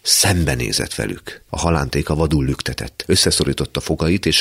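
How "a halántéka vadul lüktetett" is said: plain reading voice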